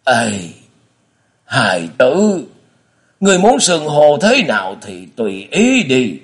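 put-on high, drawn-out old man's resignation; sighing. A narrator's reading. Father lets his son call him anything, sighing. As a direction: give in sorrowfully, stretching the address. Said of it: "lại buông tiếng thở dài rồi nói".

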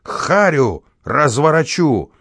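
high, slow, furious threat; raging threat. Acted. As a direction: roar it out slowly. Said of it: "неистовствовал дворник". (дворник в ярости грозит)

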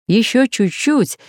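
ordinary delivery

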